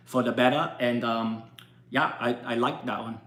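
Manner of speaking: put-on Asian accent, low and subdued after the opening; imitated Asian-accented English. Shown as a demonstration. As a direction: do a comedic, halting Asian accent. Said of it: "Give me a good Asian accent".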